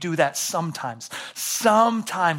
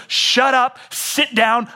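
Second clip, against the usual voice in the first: loud, higher, cutting; blunt command; 9 semitones higher, 7 dB louder, much slower than usual. Retold or imitated. God telling an anxious believer to stop, loud and blunt. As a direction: snap it like a stern father. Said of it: "he goes".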